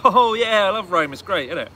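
high, loud happy cruising; mock delight on a moped; carefree joy. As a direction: gush like a carefree tourist. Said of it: "so I was on the moped like".

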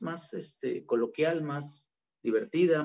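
ordinary delivery

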